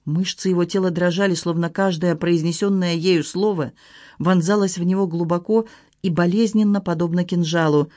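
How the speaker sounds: usual speaking voice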